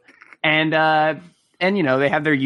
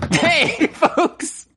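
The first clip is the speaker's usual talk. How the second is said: announcer voice; 13 semitones higher than usual. Pretend. Mock host catchphrase.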